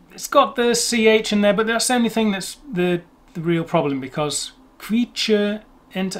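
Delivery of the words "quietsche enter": slow Quietsche-Ente, ending in plain -te; without diminutive. Shown as a demonstration. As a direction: spell out quietsche enter slowly in German, no chen. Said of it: "I normally hear it as".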